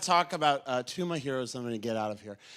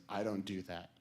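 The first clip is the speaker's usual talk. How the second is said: curt Armstrong refusal; 9 semitones lower, 12 dB quieter than usual. Retold or imitated. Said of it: "And he said".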